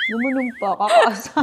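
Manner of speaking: usual speaking voice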